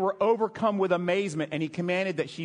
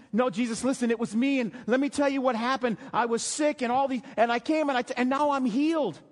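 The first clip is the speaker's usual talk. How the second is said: higher, eager tumble of words; breathless explaining; 5 semitones higher than usual. Acted. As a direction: blurt out your story to Jesus. Acts out woman excitedly explaining herself.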